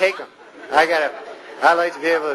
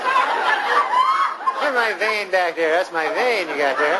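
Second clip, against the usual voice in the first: mock panic; much slower than usual. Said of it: "You get".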